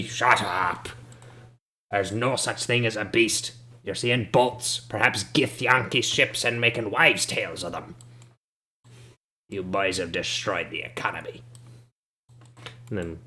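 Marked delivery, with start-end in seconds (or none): 0.0-0.9 put-on curt old man's snap; old man silences Ben Dubas; cranky old man. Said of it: "And he". 1.9-11.4 hobble into it, dismissive and cranky; a shabby old local scolding the party; shabby old man. Acted. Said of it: "And he".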